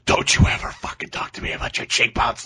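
unhinged mock outburst; losing his mind. Film character exploding at a patient over cheekbones, mock unhinged rage. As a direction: imitate a man snapping in rage. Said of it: "just losing his mind".

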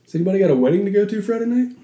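talking while chewing gum; words around a wad of gum. Real, not acted. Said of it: "Got gum in his mouth".

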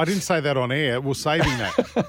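laughing through the words. Real, not acted. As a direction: giggly, caught out. Caught out, laughing it off.

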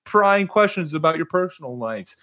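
high-pitched imitation of keen fans; imagined listeners. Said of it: "if you guys were like".

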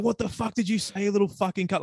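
high-pitched mock outrage, not shouted; outraged customer. Imitating the customer who tried jumping the counter, outraged. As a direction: act out an offended customer's challenge. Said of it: "He acted like I just called his mother".

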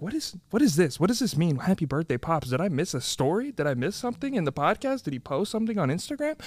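softly imitating puzzled outsiders; a quiet, baffled mock viewer; hushed confused viewer. Mimicking confused non-fans, hushed and puzzled. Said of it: "is gonna be like".

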